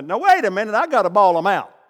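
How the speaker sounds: a hint of a scolding Peter; mock Peter itching to scold; imagined Peter. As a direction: voice Peter's grumbling thought, lightly. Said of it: "He didn't say that, but you know he was thinking it".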